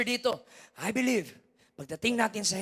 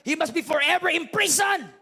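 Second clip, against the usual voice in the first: furious outburst, high and louder; angry shout; 9 semitones higher, 7 dB louder than usual. Retold or imitated. A grieving parent shouting at the killer in court. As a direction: yell it like an enraged parent. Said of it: "May iba naman nagsabi".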